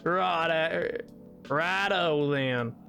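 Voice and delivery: slow Southern drawl on British slang; Britishisms in Southern accent. Pretend. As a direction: play British phrases through a Southern accent. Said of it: "colloquial Britishisms in, in, in a Southern accent".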